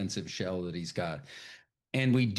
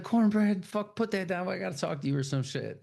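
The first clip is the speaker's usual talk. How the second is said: Stack calling; 8 semitones higher than usual. Retold or imitated. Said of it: "He's like".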